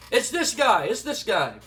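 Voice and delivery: mild mock yell; half-hearted excited shout, easing off; retold viewers' scream. Viewers yelling at the screen, mildly imitated. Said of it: "are screaming at the screen".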